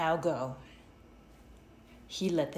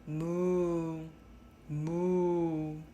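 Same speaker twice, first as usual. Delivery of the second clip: cow mooing. A narrator's reading. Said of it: "The cow said".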